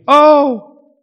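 high, loud fake cry of pain; a loud play-acted yelp; mock scream. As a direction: ham up a sister's pretend scream. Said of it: "she would scream".

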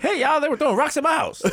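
high put-on whine about rocks thrown; hammed-up high whiny voice; mock complaining voice. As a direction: pitch it way up like a whiny old man. Mocking the rich man's complaint.

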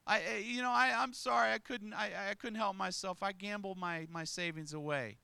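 preacher mimics a gambler's stuttered excuse, pleading; stammering mock excuse. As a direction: fumble for an excuse like a caught gambler.

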